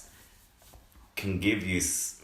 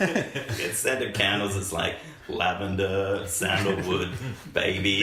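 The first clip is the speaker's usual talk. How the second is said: sultry perfume ad; slower than usual. Pretend. Mock scent ad list.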